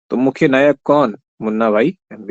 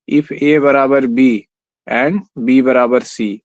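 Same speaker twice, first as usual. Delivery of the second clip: slow, spelled out part by part; slow dictation; much slower than usual. Shown as a demonstration. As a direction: lay out the rule slowly while writing. Writing a maths rule on screen. (धीरे-धीरे समझाते हुए)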